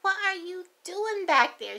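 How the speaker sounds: asking what's behind her; mock puzzled grandma; puzzled question. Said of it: "I'm like".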